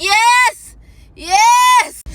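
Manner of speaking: high, loud pained cry; pained yes. Retold or imitated. Woman in labor answering paramedics, pained cry. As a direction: cry out yes through the pain.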